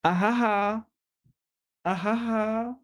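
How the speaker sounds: high, hammed-up fake laugh; mock laugh. Shown as a demonstration. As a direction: show off a put-on laugh. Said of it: "Look, I laughed".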